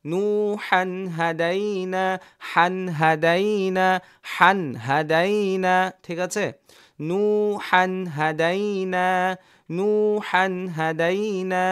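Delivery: হান, হাদাই না read briskly, no pause on হান; teacher demoing the quick reading; read quickly. Shown as a demonstration. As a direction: move straight through হান without lingering. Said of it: "তাড়াতাড়ি পড়তে হবে".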